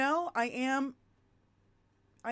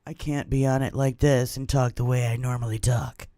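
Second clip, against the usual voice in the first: much lower, louder, boomy voice; lowered, overloud mock mic-hog voice; too-close mic voice; 10 semitones lower, 7 dB louder than usual. Shown as a demonstration. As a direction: show how it sounds with lips on the mic. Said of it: "You can't".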